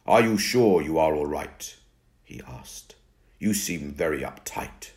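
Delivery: lightly voiced old vampire, calm and slow; a hint of a grave old vampire asking; Crepsley's vampire voice. Crepsley role voice, narrator reads.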